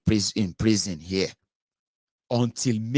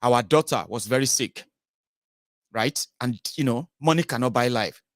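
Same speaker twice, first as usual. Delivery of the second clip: thanksgiving testimony; 3 semitones higher, 3 dB louder than usual. Retold or imitated. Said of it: "They say".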